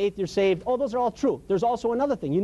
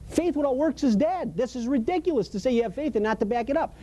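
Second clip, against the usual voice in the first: higher, indignant "are you kidding me?"; incredulous God; 5 semitones higher than usual. Retold or imitated. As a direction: let God scoff at the empty excuse. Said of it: "God says".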